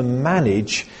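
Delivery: "manage" leaned on and held; weight on the word "manage"; stress on manage. Shown as a demonstration. Pastor reading Paul to the church, stressing "manage". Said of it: "and I emphasize that word".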